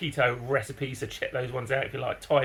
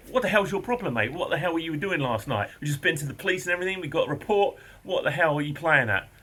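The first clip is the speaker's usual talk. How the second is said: angry confrontation; 4 semitones higher than usual. Retold or imitated. Confronting neighbour at his door.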